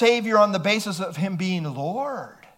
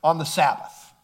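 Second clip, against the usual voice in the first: breezy laughing hey guys; lightly voiced offhand announcement of authority; casual mock announcement; 5 dB louder than usual. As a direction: play it like a casual, jokey heads-up. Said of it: "Jesus says".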